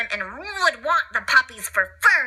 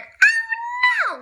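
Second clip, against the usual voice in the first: alarmed. Acted. Narrator alarm.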